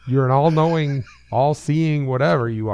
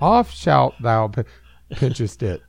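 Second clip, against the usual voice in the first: mock Yoda phrasing; slower than usual. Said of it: "is this Yoda or Jesus".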